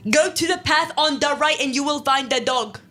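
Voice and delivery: put-on a patchy mashed-up British accent; weird British accent. Vampire directs the lost girl in a jumbled British accent. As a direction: point the way in a made-up British accent. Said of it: "Is that supposed to be British?".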